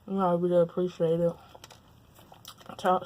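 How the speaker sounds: talking through a mouthful of food; words round a bite of food; mouth full. Real, not acted. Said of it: "I'm talking with my mouth full".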